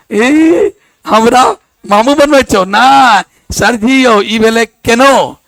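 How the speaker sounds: lightly acted pupil digging in his heels; retold protest. Pupil argues with teacher over a word, retold protest.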